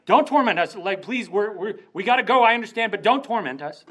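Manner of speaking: begging demons. Retold or imitated. Demons begging Jesus to spare them, high urgent pleading. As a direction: beg him not to hurt you yet. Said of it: "And they're like".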